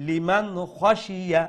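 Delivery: slow "লিমান খসিয়া" with clean n and no nasal hum; measured recitation, crisp n into throaty "খসিয়া"; clear izhar. Shown as a demonstration. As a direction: keep the n of "লিমান" clear before a full-mouthed "খ". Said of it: "ইজহার করে স্পষ্ট করে পড়বো".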